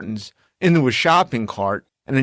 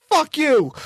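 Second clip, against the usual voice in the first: retold curse; 13 semitones higher than usual. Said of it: "he says".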